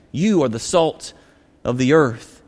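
preacher closing the thought, tender and hushed. Acted. Preacher repeating point gently.

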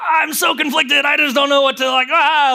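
worked-up, torn outburst; imitating antsy, conflicted overwhelm. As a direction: act out being too overwhelmed to decide. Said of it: "there's an antsiness in you".

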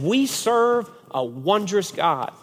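swooping, stretched-out mock reverence; imitated awestruck teen. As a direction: imitate a kid in dreamy awe. Voices the transformed teen's praise.

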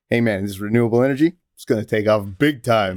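hard sell ad pitch; fast, pushy salesman voice; used car salesman. Retold or imitated. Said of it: "like a used car salesman".

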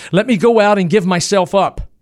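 pleading. Acted. Harold begs to surrender.

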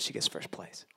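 whispered "she gets first place", breathless and stunned; hushed disbelief. Retold or imitated. Dad hearing his daughter won the poetry contest, stunned whisper. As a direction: whisper it like you can't believe it.

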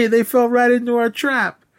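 high-pitched gleeful mock villain, laughing between phrases; Lex Luthor. Podcaster acting out Lex celebrating his trap, mock gleeful squeal. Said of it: "Lex is like".

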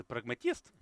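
word פרגמטיסט said with a Russian accent, rolled r. Shown as a demonstration. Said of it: "הכי כיף לומר במבטא רוסי". (מבטא רוסי)

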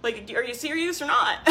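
eager pitch. Retold or imitated. Coach urging buyers on extended payment plans, eager. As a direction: push them to buy in with a grin. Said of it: "And I'm like".

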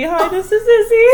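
laughing intro. Shown as a demonstration. Friend finally introduces herself on the podcast, laughing. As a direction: finally get your name in, laughing. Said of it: "I didn't even get to say".

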